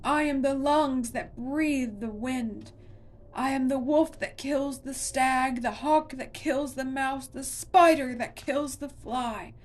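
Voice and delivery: still roaring. A narrator's reading. Monster roars its ancient nature at Connor. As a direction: chant it like a mountain speaking. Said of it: "still roaring".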